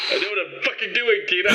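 hissed rebuke. Acted. John snapping back at Tina, hushed and furious. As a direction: bite it back through the teeth, quiet.

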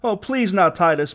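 high, frightened plea; begging. A narrator's reading. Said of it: "begged Asa".

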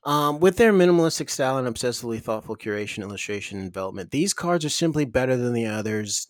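hammed-up commercial pitch; ad read. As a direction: oversell the product. Ad read continues.

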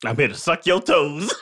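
slow, calm, matter-of-fact intruder line. Retold or imitated. Intruder calmly answering the woman, slow and even. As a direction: say it slowly and calmly. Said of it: "very calmly and said".

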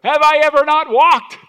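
very high, slow, loud pleading donkey voice; comic donkey pleading with its master, very high and slow; hurt talking donkey. Retold or imitated. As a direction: stretch it out like a wounded old donkey. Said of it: "and the donkey is like".

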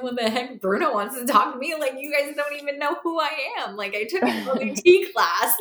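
high, fast, disbelieving outburst; mock disbelief, voice jumping up; incredulous high squeak. Retelling disbelief at Bruno's call.

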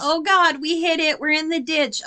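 hammed-up crash alarm; mock panic. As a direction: fake shock at hitting the deer. Pretend crash into ditch.

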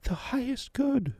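high, slow, distant medium echo; Zora's otherworldly voice. A narrator's reading. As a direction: intone it as if channelling spirits. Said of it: "Zora chimes in".

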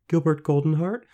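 put-on high questioning girl voice; tentative suggestion. A narrator's reading. Girl guessing the name, tentative. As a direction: venture a guess, lifting high.

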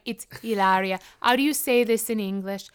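lightly mocked Spanish accent; fake Spanish accent. Mocking Hillary turned foreign, fake Spanish accent. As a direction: play at groping for English, Spanish-accented. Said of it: "got that fake Spanish accent".

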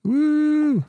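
excited whoop. Real, not acted. Excited podcast cheer.

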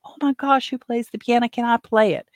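put-on high, eager gasp of a thrilled young guest; high-pitched excited mimic of the young guest; excited young man. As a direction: squeal it like you just spotted a piano. Young guest excited over piano.

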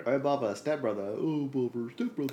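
a light Winnie the Pooh impression, mildly rising; mock "oh bother" in a hint of Pooh. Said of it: "Winnie the Pooh".

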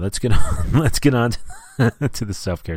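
breaking up mid-sentence; laughing. Real, not acted. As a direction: try to move on through laughter. Cracks up moving on.

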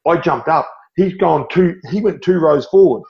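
high and thrilled, reliving the moment; a fan reliving a winning kick with his son; excited retelling. Real, not acted. Reliving Cronk's field goal.

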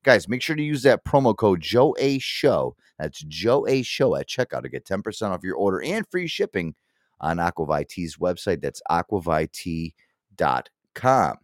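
upbeat sponsor plug; ad read. Acted. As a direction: read it like a podcast ad.

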